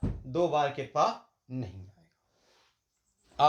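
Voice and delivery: teacher drives the rule home, drawing out नहीं आएगा; slow emphatic correction. Shown as a demonstration. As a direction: spell out the rule slowly, stretching नहीं आएगा. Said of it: "बाद में कृपा लग जाएगा".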